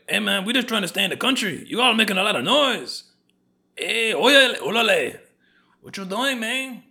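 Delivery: put-on high, loud Latino street accent; hammed-up Latino accent. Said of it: "Latinos are like".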